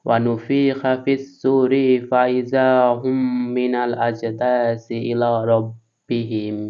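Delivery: slow, measured tilawat of the verse; slow Quran recitation. Shown as a demonstration. Teacher reads the joined verse for students, slowly. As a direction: read each word out slowly and clearly. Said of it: "আমি ধীরে ধীরে পড়ছি".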